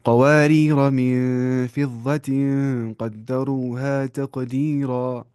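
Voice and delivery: slow chanted recitation, قواری را run straight on into من فضة; Quran recitation. Shown as a demonstration. Teacher recites the verse to online students, slow and chanted. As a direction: recite it slowly without stopping after قواری را. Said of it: "لیکن ویسے".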